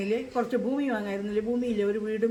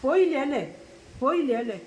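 higher, louder jeering question; imitating a son's louder mocking jab; mocking taunt; 4 semitones higher, 3 dB louder than usual. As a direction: needle her like the sneering son. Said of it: "കുറച്ച് നേരം കഴിഞ്ഞാൽ പോവും".

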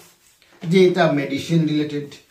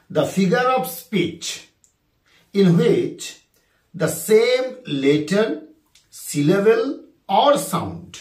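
drawn-out second reading; slow dictation repeated; 3 semitones higher, much slower than usual. Shown as a demonstration. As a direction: read it once more slowly for the class. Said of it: "আরেকবার বলি".

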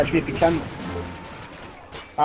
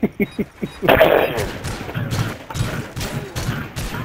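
long breathless wheeze of laughter; helpless, airy laughing fit; wheezing laugh; 4 dB quieter than usual. Real, not acted. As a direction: crack up until only wheezing is left. Cracking up at own banter.

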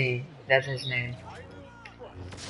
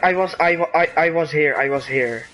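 stammering, louder protest that settles at the end; flustered protest; 2 semitones higher, 4 dB louder than usual. Real, not acted. Gamer insisting on their position to a teammate, flustered protest. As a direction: stumble over the start, insisting.

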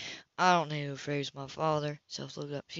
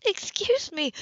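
higher, measured and cool woman's voice; Anna coolly justifying her absence to Cam, higher voice; Anna's cool voice; 7 semitones higher, 5 dB louder than usual. Acted. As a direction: keep her composed and a little icy.

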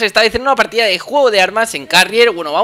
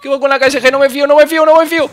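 tense; 5 semitones higher, 4 dB louder, faster than usual. Real, not acted. Tense fight with shotgun.

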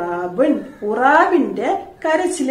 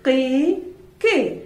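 put-on chirping cry of a baby bird; 3 dB quieter, much slower than usual. Shown as a demonstration. Teacher shows class how the chick cried, bird cry. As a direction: mimic a chick's cry, three short calls. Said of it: "പക്ഷിക്കുഞ്ഞിന്റെ സൗണ്ടാണ് കീ".

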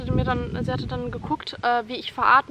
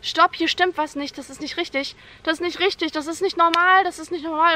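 raised, urgent mock yell; retold screaming; 5 semitones higher, 4 dB louder than usual. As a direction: imitate panicked protest, pitched up.

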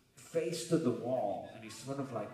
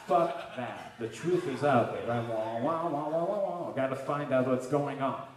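mock heroic rant; 8 dB louder than usual. Comic rant about truth.

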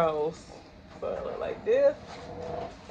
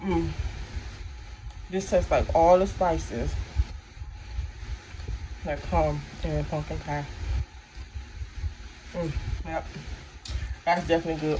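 talking between bites; tasting with food in mouth; mouth full while chewing; 3 dB quieter than usual. Real, not acted. Seen 0: Bites a wafer piece at +2.0; cheeks and lips keep chewing throughout.

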